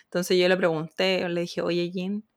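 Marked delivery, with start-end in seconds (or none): 1.6-2.3 asking through giggles; sheepish giggling ask; laughing request. Retold or imitated. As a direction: laugh while asking the favour. Asking husband to film video.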